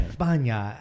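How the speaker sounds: "España" with the s turned to TH; Spain lisped TH. Shown as a demonstration. Showing what annoys him about Spain, "España" with a TH. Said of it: "they say, like, a T H".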